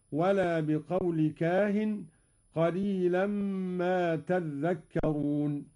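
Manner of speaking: تذكرون recited taddhakkarun; doubled dhal. Shown as a demonstration. Teacher demonstrating Qalun's reading: تذكرون with doubled dhal. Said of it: "هكذا".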